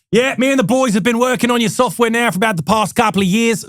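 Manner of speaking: hammed-up Aussie CEO voice, half-hearted; terrible Australian accent. CEO greeting the software salesmen, in a mock Australian accent. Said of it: "Right, it's a terrible accent".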